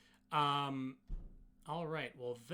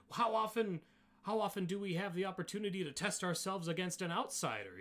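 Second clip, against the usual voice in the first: louder, higher, excited Goliath; keen challenger, pitched up and loud; eager Goliath challenger; 7 semitones higher, 6 dB louder than usual. Acted. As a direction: relish the rare chance to test an outsider. Goliath eager to test outsider.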